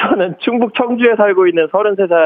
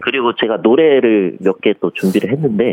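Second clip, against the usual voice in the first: A singer impression; 4 semitones lower than usual. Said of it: "장범준 씨 모창하고 성대모사요".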